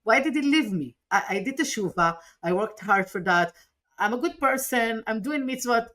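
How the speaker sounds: mild echo of a tearful outburst; retold hysterical plea. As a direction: replay the breakdown on the phone, voice rising. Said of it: "And I was hysterical. I was crying".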